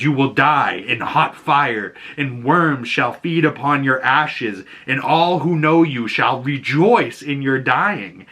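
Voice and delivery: ominous prophecy. Retold or imitated. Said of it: "goes on and says".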